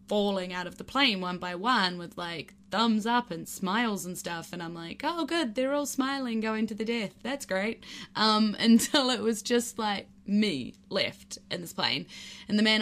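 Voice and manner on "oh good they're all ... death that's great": sarcastic. Retold or imitated. Sarcastic inner thought about smiling friends.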